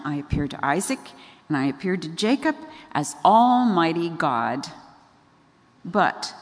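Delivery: measured, weighty recital with pauses; scripture reading. Retold or imitated. God speaks to Moses in chapter six, solemnly recited. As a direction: declaim it lightly as God's solemn word. Reads God's words from scripture.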